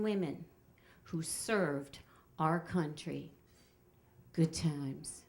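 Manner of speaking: lightly voiced tour guide, slow and measured; solemn guide speech with drawn-out pauses; Kenny. Tour guide addressing passengers at Arlington Cemetery, slow and solemn. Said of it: "and he says".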